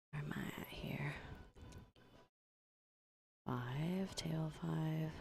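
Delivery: breathless, slow and whispery; out of breath from the stairs, slowly. Real, not acted. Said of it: "I'm out of breath from running up the stairs".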